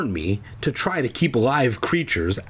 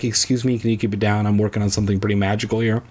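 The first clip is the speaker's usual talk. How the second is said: fast, snooty hipster voice; prissy self-important request; pretentious snob; 2 semitones lower, much faster than usual. Retold or imitated. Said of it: "then be like".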